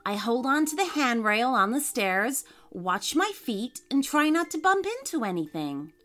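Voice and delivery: matter-of-fact. Acted. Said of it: "matter-of-factly".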